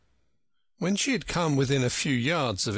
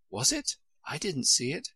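put-on child voice; 7 semitones higher than usual. A narrator's reading. Alice's childlike voice.

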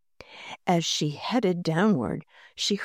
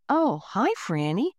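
bright, upbeat hello with a lift on hi; cheerful greeting; 3 semitones higher than usual. Acted. Muffin man greeting Franny in the basement, cheerfully. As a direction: greet her like an old friend, pleased. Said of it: "the muffin man said cheerfully".

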